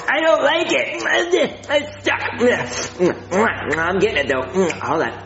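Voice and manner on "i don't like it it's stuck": talking with sticky peanut butter mouth; words glued by peanut butter; mouth full of peanut butter. Acted. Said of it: "peanut butter stick to the roof of my mouth".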